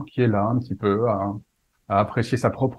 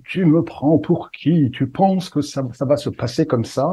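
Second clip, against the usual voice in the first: slow, higher, indignant mock fury; mock angry outburst; 3 semitones higher, slower than usual. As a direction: act out a gentleman losing his temper. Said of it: "il s'énerve vraiment... il s'emporte".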